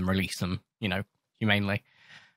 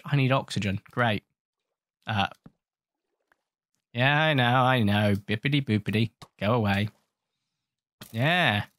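ordinary talk, nothing marked

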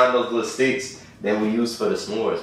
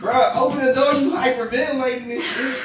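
raised voice, pitched high through the door; calling out; 13 semitones higher than usual. Real, not acted. Friend calling through door to crying roommate, raised and high. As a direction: call through the door so she hears you.

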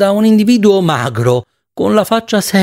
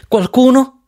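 higher, ringing insistence; vibrant tone; 9 semitones higher, slower than usual. A narrator's reading. Miss Spanish insists to Ransiter, high and vibrant. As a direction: insist it must be said now, voice ringing.

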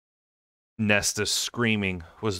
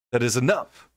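loud, higher outburst; furious shout; 4 semitones higher, 3 dB louder than usual. A narrator's reading. Lucian shouting at the guards to stop, furious.

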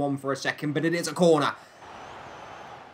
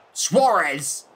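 louder burst on the striker's name; excited commentator shout; 5 dB louder than usual. Real, not acted. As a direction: call out the shot. Calls striker's shot in commentary.

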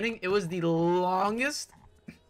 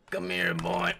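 whispered taunt; 13 semitones lower, slower than usual. Acted.

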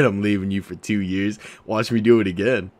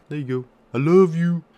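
cute love; 7 semitones higher, 6 dB louder than usual. Acted. High cute reconciliation.

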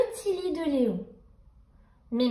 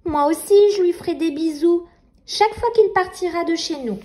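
nightmare voice. Acted. Nightmare taunting Nina.

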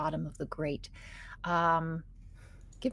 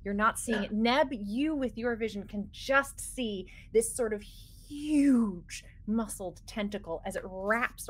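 game master scene-setting. Acted. Game master describes tentacle attack.

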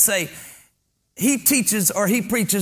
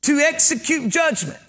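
projected, emphatic pulpit reading; declamatory sermon voice; scripture preaching; 4 semitones higher, 3 dB louder than usual. Acted. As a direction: proclaim the verse to the congregation.

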